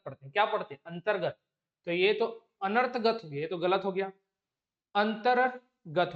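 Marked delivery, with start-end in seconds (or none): 4.9-6.1 slow spelled-out reading. Shown as a demonstration. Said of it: "देख लेना रेफ मात्रा कहाँ लगती है".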